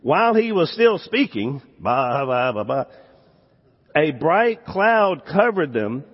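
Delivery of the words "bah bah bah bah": mock babbling. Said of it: "you talk about when you're babbling".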